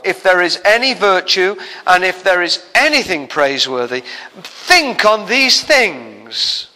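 measured reading, each whatever lifted; scripture reading. Acted. Reads Philippians passage.

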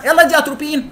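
high, loud panicked order; urgent shout. Retold or imitated. Doctor shouting orders mid-arrest, loud and high. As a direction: bark the drug order in a crisis.

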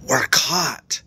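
unvoiced frightened whisper. A narrator's reading. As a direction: breathe it out in fear. Hiding, whispering scene.

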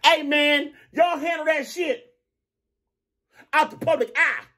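high, slow mock of a smooth peacemaker; a lightly hammed-up mediator voice; imitating Detroit Discussion. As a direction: play the guy stepping in to calm things. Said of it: "Detroit Discussion comes in and says".

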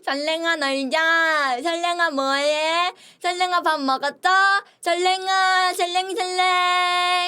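playful sing-song calling; cute calling voice. Pretend. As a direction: call out cutely to fans. Calling fans affectionately.

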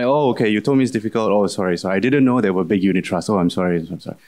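lightly sarcastic, hurried apology; understated mock contrition. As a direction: pretend to be sorry, tongue in cheek. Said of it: "I'd say to them sarcastically".

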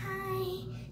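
small, soft greeting; timid little voice; shy. Retold or imitated. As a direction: imitate a bashful, quiet hello. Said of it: "She's super shy".

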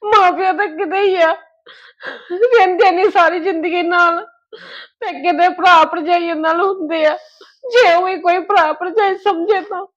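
tearful pleading; crying. Acted. Sister mourns her parents to her family, crying. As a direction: choke the words out. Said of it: "ਹੁਣ ਨੀ ਰੋਣਾ ਹੈਗਾ".

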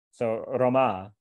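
"Rama" stretched on its final a; "Rama", second syllable held long; Rama with long ending. Shown as a demonstration. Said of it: "with the second syllable long".

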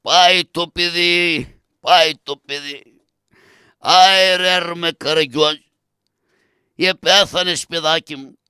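long drawn-out mock-tragic wails; hammed-up mourning wail; wailing lament. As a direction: howl in grief for a dead child, stretching the cries. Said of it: "σκούζει η τρομάρα του".

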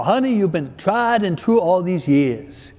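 a light put-on Southern drawl from an old husband. Old husband tenderly telling his hard-of-hearing wife, light Southern drawl. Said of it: "in the southern drawl".

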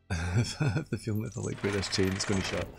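chuckling through the line; laughing. Real, not acted. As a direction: say it while laughing.

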